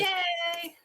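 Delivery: high drawn-out cheer. Real, not acted. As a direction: celebrate with a stretched-out yay. Cheering the successful plan.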